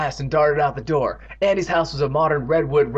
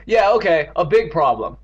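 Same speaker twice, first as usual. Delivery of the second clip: louder, irritated concession; impatient snap; 4 semitones higher, 6 dB louder than usual. A narrator's reading. Boy snapping at his teasing friend, impatient. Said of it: "Evan snapped impatiently".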